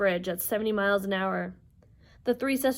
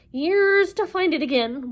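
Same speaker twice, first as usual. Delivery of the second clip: high, drawn-out complaint; moaning; 8 semitones higher, 7 dB louder, slower than usual. Acted. Wasp complaining about the lost eye, loud moaning. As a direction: moan loudly about the trouble. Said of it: "Wasp moaned".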